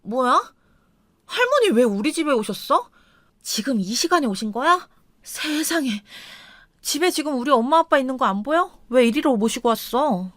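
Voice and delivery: wife caught off guard, raising her pitch slightly; lightly voiced wife demanding why grandma is here; startled wife. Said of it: "아내만 놀라서 저를 보더니".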